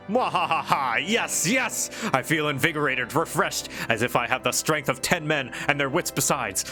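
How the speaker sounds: gloating villain with a cackle. Acted. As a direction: ham it up like a stage villain. Hammy villain gloat in game.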